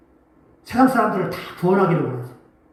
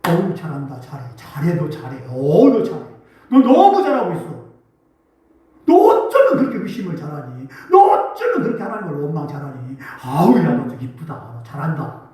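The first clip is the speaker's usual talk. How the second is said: devil's flattering voice; 5 semitones lower than usual. Acted. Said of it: "마귀가".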